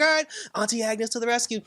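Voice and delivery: high comic neighbor voice; Agnes. Retold or imitated. Neighbor coming to the rescue with the children, high imitation. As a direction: announce it in a put-on high voice. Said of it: "she was just like".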